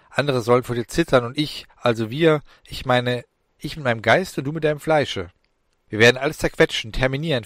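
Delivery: boastful menace, half playful; gloating demon. Acted. Young demon gloating to Alan about crushing humans.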